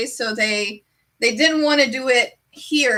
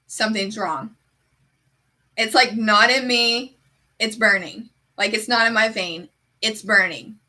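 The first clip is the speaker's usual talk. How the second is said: calm, understated deadpan delivery. Retold or imitated. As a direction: report the emergency with no alarm in the voice. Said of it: "I say it exactly like that".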